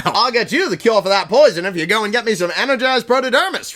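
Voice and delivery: sly bargaining plant villain voice; Karzani voice. Acted. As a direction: offer the cure like a scheming creature. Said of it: "that's how he talks now".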